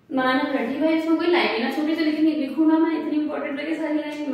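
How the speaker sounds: high, loud exasperated outburst. Retold or imitated. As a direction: relive the frustration, almost crying out. Retells frustration making notes.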